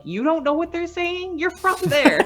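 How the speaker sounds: high, loud incredulity, laughing at the end; retold disbelief at dad; incredulous. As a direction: daughter teasing her dad, high and laughing. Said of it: "I'm like".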